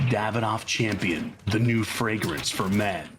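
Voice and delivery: low, slow, smooth commercial read; cologne ad voiceover. Retold or imitated. Actor recites his old cologne ad line in a low, slow voiceover. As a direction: sell it like a fragrance announcer. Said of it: "do you remember any of the lines".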